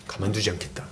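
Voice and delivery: seething under breath. Retold or imitated. A churchgoer seething inside after being insulted, mutters a quiet threat. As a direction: grumble the threat quietly to yourself. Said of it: "속을 막 부글부글 끓죠".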